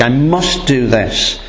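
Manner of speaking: slow, firm weight on "must"; emphatic. Retold or imitated. Preacher voicing Jesus's resolve to the congregation, emphatic. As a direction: stress on "must", slowly and deliberately. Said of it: "It's very emphatic".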